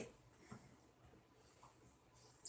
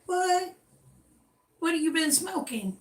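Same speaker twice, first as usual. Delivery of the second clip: higher-pitched disbelieving retort; mock disbelief, pitched up on "What?"; incredulous; 5 semitones higher than usual. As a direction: react as if that's absurd. Acted reaction to a surprising compliment.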